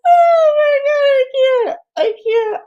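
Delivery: loud, high, helpless laughing; shocked laughter. Real, not acted. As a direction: crack up in shock at the clip. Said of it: "that's my real, like, "Oh my God".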